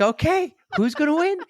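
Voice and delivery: high, bright-eyed eagerness; excited wondering; eager anticipation. Retold or imitated. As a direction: lean in, dying to know the winner. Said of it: "And I'm like".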